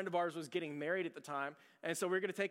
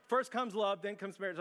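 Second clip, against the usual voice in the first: dawning realization; 3 semitones higher than usual. Retold or imitated. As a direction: say "First comes love" as the penny drops. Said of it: "And so I'm going".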